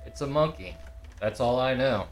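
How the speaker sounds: character voice. Acted. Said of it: "in my character voice".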